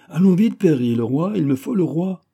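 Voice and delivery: plus haut et plus fort; pressant, impérieux. A narrator's reading. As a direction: exige le roi sur-le-champ. D'Artagnan presse Perry. (d'Artagnan presse Perry d'aller chercher le roi, voix forte)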